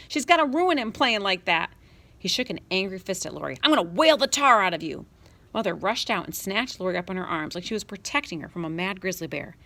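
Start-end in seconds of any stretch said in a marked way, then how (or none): 0.1-5.1 angry shouting. Acted. Boy raging at sister.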